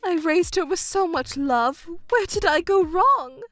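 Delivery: wounded disbelief, pitch climbing at the end; hurt, bewildered mother; distraught. Acted. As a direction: protest as if betrayed by everyone. Mother learns everyone deceived her.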